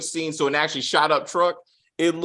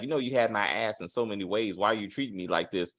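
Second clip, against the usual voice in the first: mock pleading Daikon; 8 semitones lower, 8 dB quieter, faster than usual. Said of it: "Daikon had to be like".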